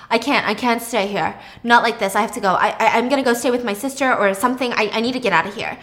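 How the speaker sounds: mildly agitated stammering; hurried, understated urge to escape; overwhelmed. Acted. Thomas packing to leave Pippa, mildly overwhelmed.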